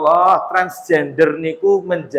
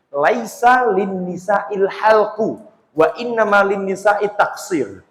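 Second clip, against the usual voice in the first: slow Arabic recitation; slower than usual. Acted. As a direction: recite the Arabic slowly and deliberately. Quoting hadith in Arabic.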